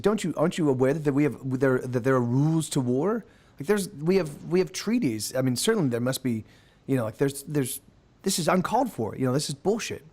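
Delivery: put-on British-accented elf objecting; a touch of British indignation. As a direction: protest with a light British accent. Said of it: "sort of a British accent".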